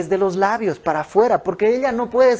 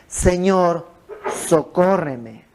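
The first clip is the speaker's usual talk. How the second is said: súplica sincera; much slower than usual. Retold or imitated. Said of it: "Ya no está gritando".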